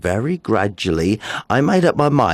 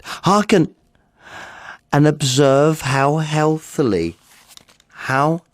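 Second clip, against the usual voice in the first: insistent call; 7 semitones higher than usual. Acted. Madman insists he is sane.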